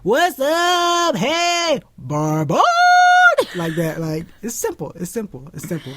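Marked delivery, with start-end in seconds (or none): 0.0-3.5 high yelping dog shout; mock dog calling out a greeting. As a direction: yap it out like an excited dog. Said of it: "Or like".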